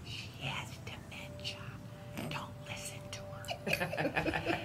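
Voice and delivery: slow, laughing whisper; mocking whisper. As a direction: dismiss her behind her back. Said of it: "she goes".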